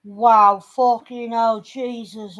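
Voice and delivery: slow, stunned mock reaction; retold shock. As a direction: imitate someone appalled by a bruise. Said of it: "Your face was like".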